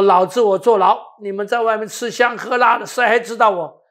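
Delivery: indignant rant, half replayed; retold angry outburst. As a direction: bark it out like a bitter young prisoner. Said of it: "我只会骂".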